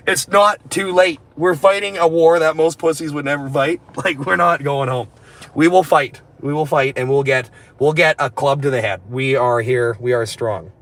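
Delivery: loud, proud war cry; rally the troops; defiant rally cry. Pretend. Reading troll comment, defiant.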